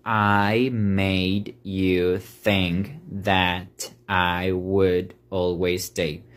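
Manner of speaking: slow, word by word "I made you think that I would always stay"; slow teaching read of the lyric; slow careful English. Shown as a demonstration. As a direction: spell out each word slowly. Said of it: "la frase con la que vamos a trabajar".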